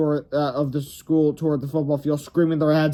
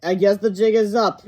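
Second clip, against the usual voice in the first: put-on higher, brighter boy voice; kid character voice; 5 semitones higher, 5 dB louder than usual. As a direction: play the worried kid, a little louder.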